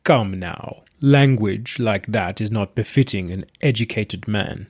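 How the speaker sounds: slow, gravelly god voice; gravelly deep voice. Acted. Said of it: "The voice came out gravelly and deep".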